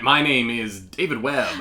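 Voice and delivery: slow, drawn-out radio host intro; radio announcer voice. Pretend. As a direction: announce your name like a DJ. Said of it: "I'm doing a radio announcer voice".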